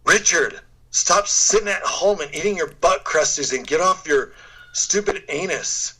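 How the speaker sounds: lightly voiced whiny teen scolding his friend; a hint of a petulant nerd telling Richard off; Napoleon Dynamite voice. Shout-out to the host's best man, in a light Napoleon Dynamite voice. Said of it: "Can we give him a shout out in the Napoleon voice?".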